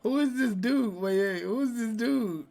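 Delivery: high, real disbelief cutting in; stunned interruption. Real, not acted. Host cutting in on the colorblind joke, high disbelief. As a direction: stop everything, who is that.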